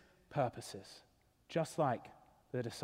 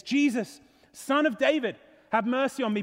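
mildly raised plea to a passer-by; crying out; 4 semitones higher than usual. Acted. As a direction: call out for mercy, raised but controlled. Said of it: "the blind man cries out".

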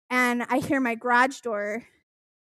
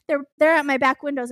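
fast, louder mock panic; retold freak-out; 3 semitones higher, 5 dB louder, faster than usual. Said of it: "freaking out".

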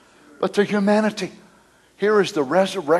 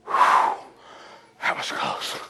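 hushed relief; 5 semitones lower, 8 dB quieter than usual. Acted. Preacher voices death, hushed relief.

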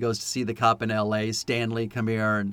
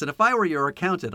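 quick, voiced-up accountant's counsel; retold advice; 3 semitones higher, faster than usual. Imitating an accountant advising a bounty hunter, brisk advice. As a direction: offer unsolicited advice briskly.

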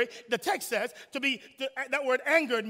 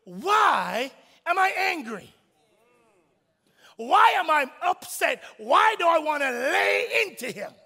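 slow, rising self-examination with WHY leaned on; preacher asking himself why he's angry; questioning himself; 3 semitones higher, 3 dB louder than usual. Retold or imitated. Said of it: "I asked myself".

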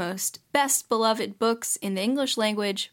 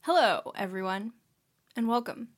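careful cautious intro. Shown as a demonstration. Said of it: "She only said two".

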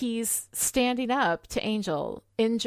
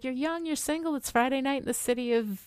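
mocking; 5 semitones higher, faster than usual. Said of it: "making fun of the way that she said".

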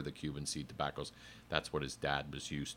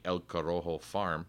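lightly Spanish-accented name within English. Real, not acted. Explaining where the seed was grown, light Spanish accent. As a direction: slip into Spanish pronunciation for El Corojo. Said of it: "Why do I do it with a Spanish accent?".

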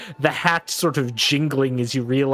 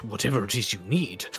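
relieved fussy servant. Acted. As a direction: gush with relief as a nervous servant. Reynold offers payment.

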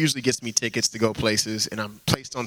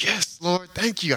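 higher, joyful thanks to God; excited thanks; 6 semitones higher, slower than usual. Retold or imitated. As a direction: celebrate with lifted voice. Grateful prayer after getting seat.

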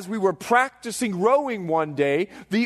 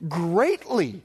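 David's solemn confession; much slower than usual. Retold or imitated. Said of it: "the Bible says, as David prays".

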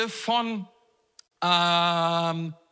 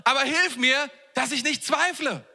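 high, raised pleading call; acted cry of a despairing believer; 7 semitones higher than usual. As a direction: call out for help as a desperate father. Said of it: "Und dann der Vater rief".

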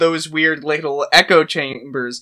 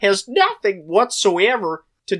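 Kermit the Frog. Pretend. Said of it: "can you do a Kermit the Frog voice".

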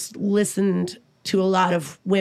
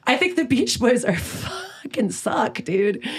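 conspiratorial whisper. Real, not acted. Owning up to the podcast host, a hushed guilty whisper. Confessing a controversial opinion.

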